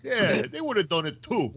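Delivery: thick New York accent. Real, not acted. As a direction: say it like a New Yorker. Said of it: "Using your New York accent again?".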